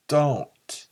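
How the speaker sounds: pleading. A narrator's reading. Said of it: "He pleaded".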